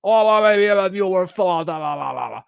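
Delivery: talking into a whirring fan, wobbly and drawn out; high, long "Luke", then loud chopped-up fan babble; Chris Farley. Retold or imitated. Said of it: "put his mouth behind a fan".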